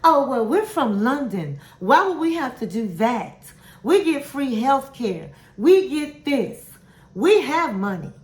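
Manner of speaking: mock indignant mother. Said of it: "the mother was livid".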